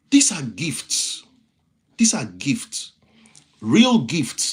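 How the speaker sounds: slow breathy whisper. Acted. Host whispers to viewers about their gifts. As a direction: lean in and whisper it like a secret. Intimate emphasis to stream viewers.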